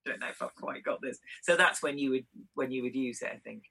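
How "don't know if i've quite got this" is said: unvoiced, softer inner doubt; a nervous private whisper; whispered worry. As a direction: whisper it to yourself, unsure. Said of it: "And I was just thinking".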